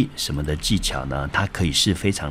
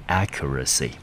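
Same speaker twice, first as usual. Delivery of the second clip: accuracy stressed on its first syllable, AC-curacy; 3 semitones lower than usual. Shown as a demonstration. Teacher shows learners the word, accuracy stressed on first syllable. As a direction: model "accuracy" with the accent on AC. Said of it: "中音落在第一个音节".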